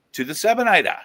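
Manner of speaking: high, loud prize-show call; hyped winner announcement. Real, not acted. Host naming the silver winner, high and loud.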